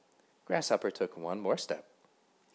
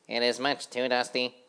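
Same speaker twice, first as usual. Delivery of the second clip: high busy housefly chanting; sing-song of a tidy little fly; 4 semitones higher, 5 dB louder than usual. A narrator's reading. Housefly sweeping the road, chanting brightly and high.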